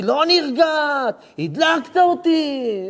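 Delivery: high, slow crying shout of a furious wife; wife at husband, crying shout; angry wife. Acted. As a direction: wail it like a wife who won't calm down. Acted angry wife in quarrel.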